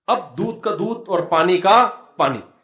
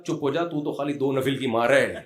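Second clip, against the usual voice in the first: laughing quote; 2 semitones lower than usual. Retold or imitated. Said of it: "اسے کہا".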